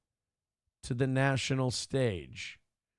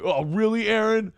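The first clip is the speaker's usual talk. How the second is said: mocking viewer; 5 semitones higher than usual. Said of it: "gonna catch me a lot of shit".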